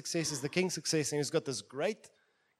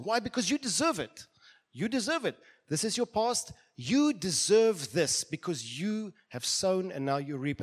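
preached shout; 2 semitones higher, 4 dB louder than usual. Acted. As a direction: hammer the accusation home, slowing at the end. Preacher shouts accusers in psalm.

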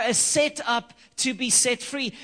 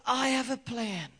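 voice of God; 2 semitones higher, 3 dB quieter than usual. Retold or imitated. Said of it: "the voice of God say to me".

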